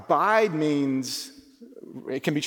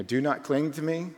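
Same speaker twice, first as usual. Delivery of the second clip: softer, gentle "Do not cling to me."; nicely; 4 dB quieter than usual. Retold or imitated. Jesus gently telling Mary, softly and kindly. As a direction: say it kindly, easing her off. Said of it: "maybe probably nicely".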